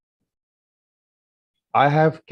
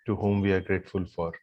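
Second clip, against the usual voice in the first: low, soft meditative guidance with long pauses; guided gratitude meditation; 4 semitones lower, 4 dB quieter than usual. Real, not acted. Yoga teacher leading the group in silent gratitude, meditative guidance. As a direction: lead them gently into silent gratitude, leaving long pauses.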